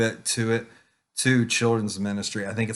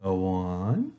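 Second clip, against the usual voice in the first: put-on much higher, louder, energetic kids' host; animated teacher voice; 7 semitones higher, 4 dB louder than usual. Shown as a demonstration. Teacher rallying little kids to recite, high and loud. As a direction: pump up the preschoolers for the verse. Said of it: "Are you ready to say our memory verse?".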